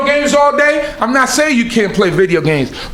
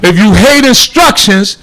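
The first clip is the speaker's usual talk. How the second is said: louder, weighty warning from the preacher; emphatic preaching; 4 dB louder than usual. Real, not acted. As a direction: press each point home loudly.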